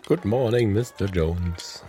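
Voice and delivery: greeting between sips of coffee; while sipping a drink. Real, not acted. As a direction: talk around a slurp of coffee. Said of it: "Du schlürfst schon fröhlich deinen Kaffee".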